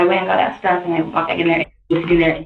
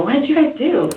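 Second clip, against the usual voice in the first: retold alarmed question; 9 semitones higher than usual. Quotes her own alarmed question.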